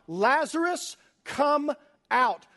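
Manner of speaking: high, loud call into the tomb; commanding shout to the dead man. Acted. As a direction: cry it out with full authority. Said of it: "and he cries out".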